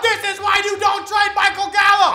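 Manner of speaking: high-pitched, screaming outburst. A fan watching a football game reacts to a play, screaming.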